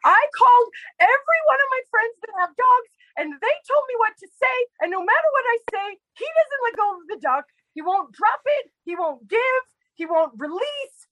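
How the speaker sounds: high, fast frantic imitation of sister; mimicking panicked sister. Sister on the phone about the dog, frantic high imitation. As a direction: squeak it out like a flustered sister on the phone. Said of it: "And she goes like".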